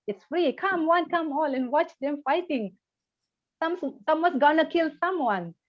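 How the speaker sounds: like a barker inviting people to a fight; mock shouting monk. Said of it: "saw the monk shouting like that".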